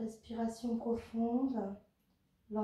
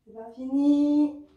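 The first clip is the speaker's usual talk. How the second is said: fort et lent, pour motiver; encouragement fort; 4 semitones higher, 8 dB louder, slower than usual. Real, not acted. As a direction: pousse l'élève à tenir. Coach pushes class to continue. (encouragement appuyé et lent)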